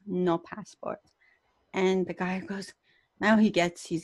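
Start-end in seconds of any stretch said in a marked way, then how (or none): 0.1-1.1 mom's quiet, slow reply. Retold or imitated. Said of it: "My mom says".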